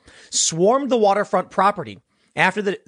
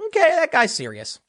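mock alarmed realization; 8 semitones higher than usual. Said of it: "I'm like".

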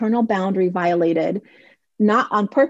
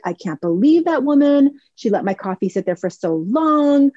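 complaining. Retold or imitated. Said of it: "complaining to the daughter".

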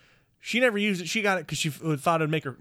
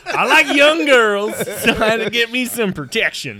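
much higher, louder, slow put-on sleazy voice; creepy joke voice; 9 semitones higher, 9 dB louder than usual. Joking to friends about the fake ID, in a hammed-up creepy voice.

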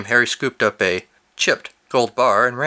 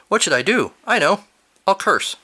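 panicked high cry; 8 semitones higher than usual. Acted. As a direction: squeal it in panic. Quoted panic, read aloud.

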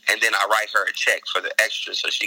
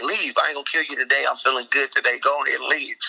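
mock robber; 4 semitones higher than usual. Acted robber dismissing his victim.

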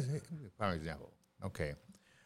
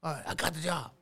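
excited; 5 semitones higher than usual. Acted. Acting out new hire's joy.

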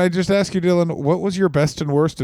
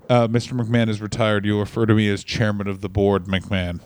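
Vince as chairman; 3 semitones lower than usual. Pretend.

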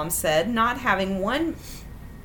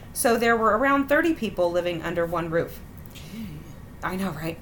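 put-on measured read-aloud of a childhood memory; story narration; 3 semitones lower than usual. A narrator's reading. Host reading out a summer vacation story, measured narration. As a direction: read it out steadily like a written anecdote.

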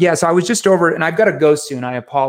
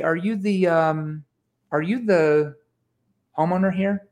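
hesitant and confused, stumbling; halting, unsure door-knock question; stuttered, slow voice; 3 semitones higher than usual. Shown as a demonstration. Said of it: "in kind of a stuttered, slow voice".

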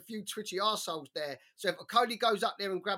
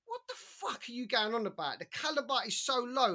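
incredulous retort; 5 semitones higher than usual. Retold or imitated. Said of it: "you're like".

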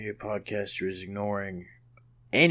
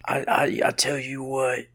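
drawled action-star pitch; lightly put-on tough guy, halting; Steven Seagal impression. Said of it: "If you do Steven Seagal's voice".

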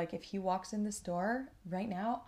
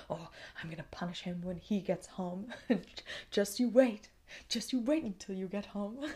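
playful threat. Retold or imitated. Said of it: "I was sat here thinking".

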